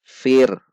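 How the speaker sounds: "Fir" closed on a thin r. Shown as a demonstration. Teacher showing the thin reading, "Fir" with light final r. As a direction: end "Fir" lightly on the r, no vowel after. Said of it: "maka dibaca tipis".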